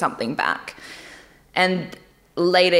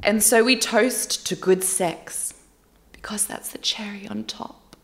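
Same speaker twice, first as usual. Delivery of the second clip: put-on British accent; 2 semitones higher, 3 dB quieter than usual. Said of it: "my go-to accent always British?".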